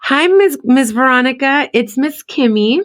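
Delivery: a hint of a cheerful kindergarten teacher. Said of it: "He goes".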